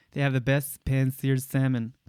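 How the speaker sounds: "pan-seared salmon" with an exaggerated sibilant S; hammed-up S on "best" and "salmon"; stereotyped gay S. Shown as a demonstration. Recommending a restaurant in imitation, exaggerated S on "pan-seared salmon". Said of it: "talks like that".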